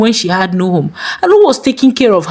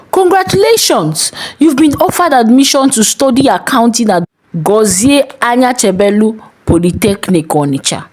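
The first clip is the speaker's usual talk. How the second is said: excited news; 3 semitones higher than usual. Acted. Text announcing her admission.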